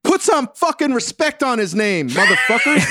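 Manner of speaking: mock rant. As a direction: sum up the rant as a fake tough guy. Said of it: "That's what you're saying".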